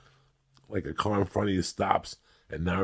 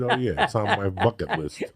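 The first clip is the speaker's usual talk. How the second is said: sarcastic mock reply.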